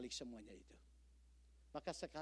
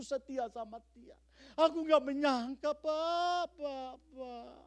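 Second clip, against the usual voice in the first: higher, louder, wailing heartbreak; heartbroken caller; 20 dB louder, slower than usual. Retold or imitated. Jilted caller pleading to the pastor, mock-wailing heartbreak. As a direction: play the jilted caller pleading through tears. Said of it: "menelpon saya dan berkata".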